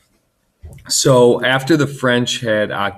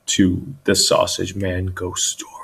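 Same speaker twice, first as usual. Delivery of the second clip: spooky whisper. Acted. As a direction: breathe the title like a secret. Title whispered spookily again.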